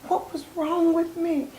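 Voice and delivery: slow, breathy near-whisper of despair; retold tearful lament. A mother alone at dawn writing, whispering through tears. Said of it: "And tears just streaming down".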